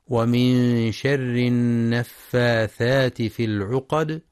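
slow measured chant; Quran recitation. Shown as a demonstration. Teacher reciting the verse, slow chant. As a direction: recite it slowly with tajweed.

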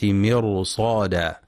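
مرصادا with a thick, dark r; heavy ra. Shown as a demonstration. Teacher showing readers the rule, heavy r in مرصادا. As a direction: darken the r before the sad in مرصادا. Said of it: "لتفخيم الراء في كلمة".

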